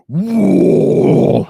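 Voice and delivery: loud, high, excited whoa. Real, not acted. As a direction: shout it in sudden delight. Reacting to chat donation.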